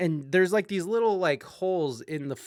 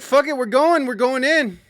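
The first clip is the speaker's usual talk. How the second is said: hyped retold war cry; 8 semitones higher, 8 dB louder than usual. Psyching himself up retold.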